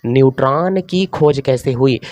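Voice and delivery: slow, measured topic announcement; slow dictation. Real, not acted. Teacher gives students the third topic, slow dictation. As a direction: draw out each word for note-takers.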